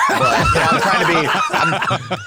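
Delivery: words breaking into real laughter; giggling mid-sentence; laughing. Real, not acted. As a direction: laugh through it as you admit it. Laughs through own story.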